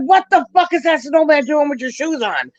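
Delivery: shocked mother. Retold or imitated. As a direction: play the stunned mother seeing the snowman.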